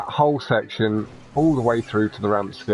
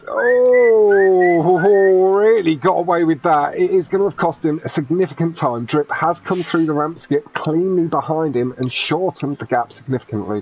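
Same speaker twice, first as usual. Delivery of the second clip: rising play-by-play, higher and louder; excited race commentary; 6 semitones higher, 5 dB louder than usual. Acted. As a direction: call the crash like a race caster.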